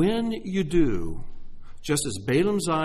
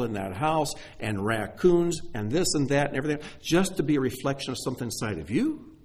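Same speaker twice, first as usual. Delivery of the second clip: mildly acted disbelief, raised and emphatic; incredulous objection; 3 semitones higher than usual. Preacher voices a listener doubting his story, mildly incredulous. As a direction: play the sceptic, leaning on each objection.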